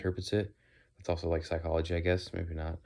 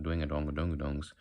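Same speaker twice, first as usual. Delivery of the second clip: Southern accent nonsense syllables; Southern drawl; 2 semitones lower, 3 dB quieter than usual. Shown as a demonstration. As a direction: round out the "donga" syllables, Southern style. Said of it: "not the".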